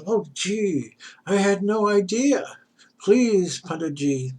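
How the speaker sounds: a lightly voiced humble hermit, pleading. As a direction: beg the famous teacher to help. Hermit begs pundit for help.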